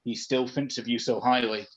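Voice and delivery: a throat-scraping spirit voice; ghost voice. Acted. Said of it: "That hurts my throat".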